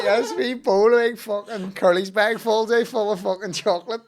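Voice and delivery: high, loud, tearful laughing speech; crying with laughter. Real, not acted. Mate retelling the stashed chocolate, crying laughing. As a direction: barely get it out for laughing. Story climax, laughing to tears.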